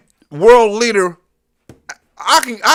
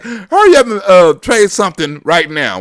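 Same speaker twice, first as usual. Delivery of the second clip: imitating Xi; 5 dB louder than usual. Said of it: "President Xi like".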